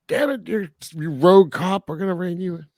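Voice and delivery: stereotypical police boss. Retold or imitated. Boss reining in a rogue cop, mock stereotypical scolding. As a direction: imitate a chief scolding his rogue cop. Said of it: "super stereotypical, like".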